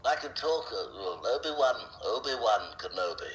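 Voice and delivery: lightly put-on Alec Guinness voice; Obi-Wan Kenobi. Shown as a demonstration. Voice actor showing a voice he can do all day, Obi-Wan impression. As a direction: slip into an elderly Jedi master's cadence. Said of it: "that was an incredible im-, impression".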